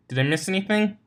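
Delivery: talking while chewing popcorn; words around a mouthful of popcorn; mouth full. Acted. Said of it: "she asked while chewing".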